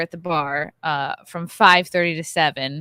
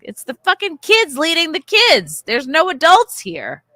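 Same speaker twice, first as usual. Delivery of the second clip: retold exasperation; 9 semitones higher, 5 dB louder than usual. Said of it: "And I was like".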